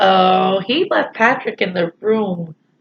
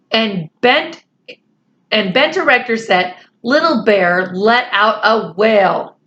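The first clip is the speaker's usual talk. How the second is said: lightly voiced children's story reading; story narration; 2 semitones higher, slower than usual. A narrator's reading. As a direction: read the story along evenly to young listeners.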